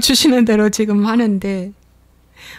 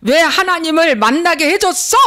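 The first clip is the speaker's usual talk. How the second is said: whiny complaint; 6 semitones higher, 4 dB louder than usual. Retold or imitated. Preacher voices grumbling believer.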